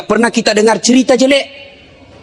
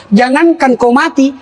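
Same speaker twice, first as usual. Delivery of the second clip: teasing laugh; 5 semitones higher than usual. Retold or imitated. Preacher teasing his wife about remarrying, laughing. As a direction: tease the wife through laughter.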